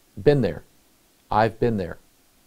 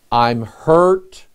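put-on a child's loud, real-hurt cry; imitating a child crying out in pain; child's hurt scream; 6 dB louder than usual. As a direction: yell it like a hurt kid, mock scream.

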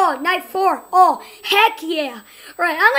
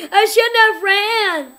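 laughing wail; 2 semitones higher, 4 dB louder than usual. Real, not acted. Dying after running.

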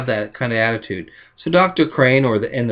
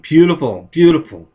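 gleeful exclaim; 3 semitones higher, 4 dB louder than usual. Retold or imitated. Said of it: "she smiled and exclaimed".

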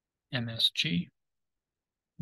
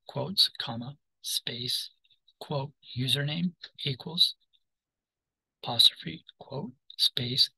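dictating. Shown as a demonstration. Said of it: "okay, for that entire string".

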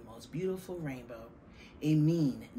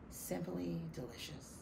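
contented; 3 semitones higher, 8 dB quieter than usual. Acted. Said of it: "and said".

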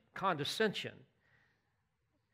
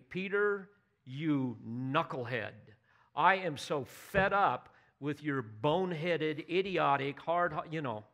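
mock scolding. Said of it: "he didn't say".

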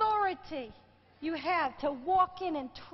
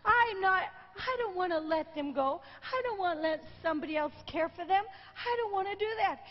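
retelling a crying plea, voice catching; pleading through tears, restrained; a retold sob-choked refusal; tearful plea; faster than usual.

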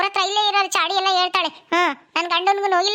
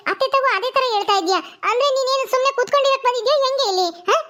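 higher, sharp mock scolding; sister-in-law scolding the new bride in front of her mother-in-law, higher and sharp; 3 semitones higher than usual. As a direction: tell her off, a bit higher and pushier. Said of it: "ನಿಮ್ ಎದುರಿಗೆ ಹೆಂಗ್ ಬೈತಾಳೆ ಇವಳು".

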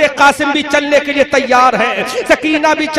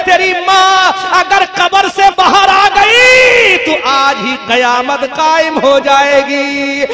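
tearful mother's voice; 2 semitones higher, 4 dB louder than usual. Acted. Mother answers her son from the grave, tearful wail. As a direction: plead in tears, rising to wails. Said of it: "آنکھوں سے آنسو جاری ہے".

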